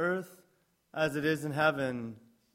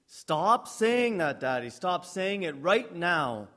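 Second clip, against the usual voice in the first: put-on escalating child tantrum; slower than usual. Child escalating against father.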